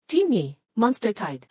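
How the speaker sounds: slow, loud, urgent call-out; an alarm read out to the whole team; urgent alert. Acted. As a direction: announce the alarm slowly and loudly.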